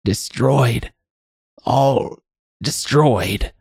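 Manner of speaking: put-on high old woman's voice, halting; old crone. A narrator's reading. Addled old woman lamenting to the man, high crone voice. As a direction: break it up word by word, high and crone-like. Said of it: "croaking sound".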